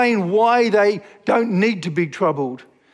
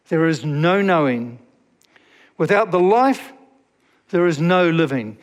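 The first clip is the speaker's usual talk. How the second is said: solemn scripture reading. Acted. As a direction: read it like a prayer. Reads Thomas à Kempis prayer aloud.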